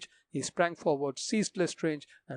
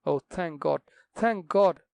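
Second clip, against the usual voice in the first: tearful relief; 2 semitones higher, 6 dB louder, slower than usual. Acted. Daughter weeps with relief.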